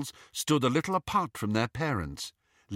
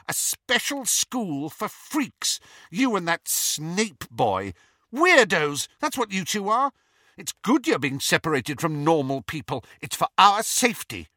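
high, louder gloating taunt; relishing taunt; 8 semitones higher, 3 dB louder than usual. A narrator's reading. Petunia taunting her sister with relish, high and gloating. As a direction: savour the insult. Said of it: "said Petunia with relish".

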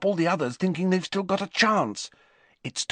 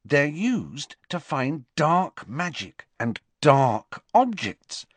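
sighing; 7 semitones higher than usual. A narrator's reading. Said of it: "sighed Hermione".

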